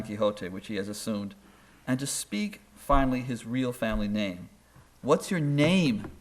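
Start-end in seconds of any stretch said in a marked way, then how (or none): 5.0-6.1 slow, higher-pitched mock demand; insistent demand. Family pressing Don Quixote on his deathbed, insistent. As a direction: press for an answer, drawing it out. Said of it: "they insist".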